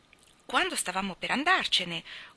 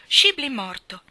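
higher and much louder cry of shock; stunned disbelief; 6 semitones higher, 10 dB louder, slower than usual. Acted. Old guide echoing the death, loud and shocked. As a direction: repeat the news as if it hits you.

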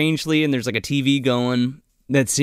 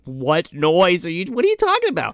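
mock innocent daughter, rising much higher at the end; innocent girl; 4 semitones higher than usual. Daughter answering her dad, mock innocent and high-pitched. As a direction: play dumb in a lightly voiced girlish squeak. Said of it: "And I'm like".

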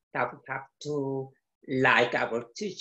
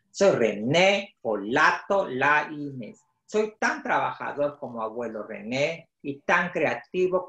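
measured read-aloud storytelling in Spanish; story narration. A narrator's reading. Author reading his book in Spanish to children, storytelling voice.

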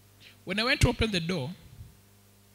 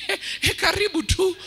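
much higher squeaky falsetto with nervous laughs; nervous soprano voice; 8 semitones higher, 3 dB louder than usual. Retold or imitated. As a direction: squeak out a panicked welcome to dad in falsetto. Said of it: "Ka voice yangu kaka kwa kasoprano".

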